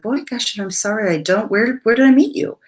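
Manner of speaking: flustered surprise. Retold or imitated. Caught off guard by former attendee.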